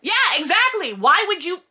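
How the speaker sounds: very high, exasperated shouting; ranting outburst building to a shout; comic fury. Real, not acted. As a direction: screech it in outraged disbelief. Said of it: "hit just astronomical heights of fury".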